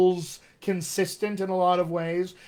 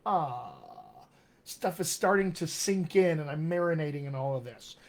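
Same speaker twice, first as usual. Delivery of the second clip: dawning realization; 2 semitones lower, 4 dB quieter than usual. Acted. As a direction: lightly act out a gradual realization. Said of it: "we click the switch and it goes".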